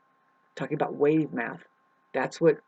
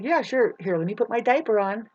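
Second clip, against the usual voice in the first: sarcastic reply; 5 semitones higher, 4 dB louder than usual. Acted. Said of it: "It's like".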